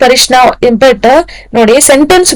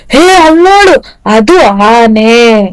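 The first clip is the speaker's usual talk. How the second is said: pointing something out; slower than usual. Acted. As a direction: act out showing someone a sight, stretching the last words. Pointing out an elephant to someone.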